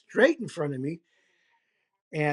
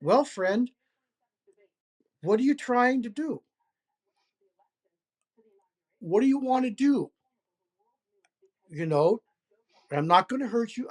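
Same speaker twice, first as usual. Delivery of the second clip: gently coaxing, higher pitch, unhurried with long pauses; soft, friendly voice; 3 semitones higher than usual. Retold or imitated. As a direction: reassure a wary stranger, lightly raised pitch. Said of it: "soft voice, I say".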